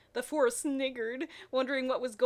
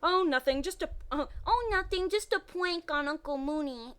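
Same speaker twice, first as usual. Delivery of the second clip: high, sing-song fake innocence; innocent schoolboy voice; 7 semitones higher, 4 dB louder than usual. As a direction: play it innocent, high and sweet. Fred voiced playing innocent.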